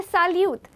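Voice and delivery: salute said as sal-yoot; French salut. Shown as a demonstration. Teacher introduces salute for younger people. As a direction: model salute clearly. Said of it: "we're gonna repeat it again".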